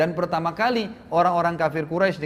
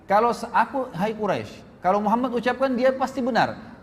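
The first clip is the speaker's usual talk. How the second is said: emphatic declaration; 5 semitones higher than usual. Acted. Abu Bakar answers Quraisy.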